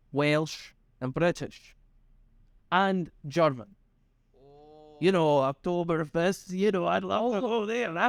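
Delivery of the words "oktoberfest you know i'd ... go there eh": put-on Canadian accent. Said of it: "That was my Canadian impression".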